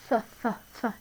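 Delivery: "Ph, ph, ph" as a repeated breathy f sound. Shown as a demonstration. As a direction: puff out "ph" like an f three times. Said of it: "Do you hear that ph sound?".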